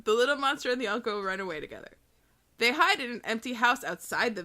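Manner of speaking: very fast reread; rushed. Shown as a demonstration. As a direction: rattle the line off quickly. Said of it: "No, listen".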